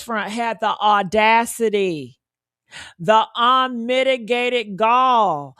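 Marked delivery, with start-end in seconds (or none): 3.0-5.6 slow emphasis. Real, not acted. Mock-grand insult build-up.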